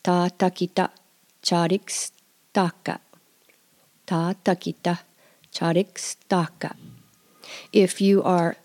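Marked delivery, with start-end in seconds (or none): 0.0-6.7 Ta takita charikstaka, slow and deliberate; drawn out so learners can copy; slow repeat drill. Shown as a demonstration. Teacher drilling the phrase with listeners, slow. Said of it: "Let's say that a few times".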